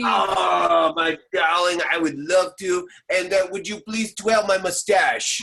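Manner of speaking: loud, pompous mock French accent; hammed-up French accent. Improviser answers his partner loudly in a hammed-up French accent. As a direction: declaim like an over-the-top Frenchman. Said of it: "We're actually adopting the French accent".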